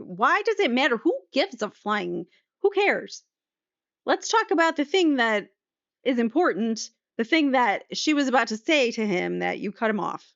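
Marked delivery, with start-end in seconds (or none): 0.0-6.9 exasperated. Real, not acted. Exasperated outburst in cross-examination.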